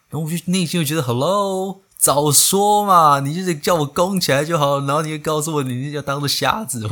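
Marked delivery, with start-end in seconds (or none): 1.0-6.9 exasperated. Retold or imitated. Exasperated inner rant at anesthetist.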